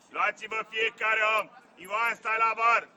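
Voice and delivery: loud coaching call; shouted orders. Real, not acted. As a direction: shout instructions out to the team. (indicații strigate tare)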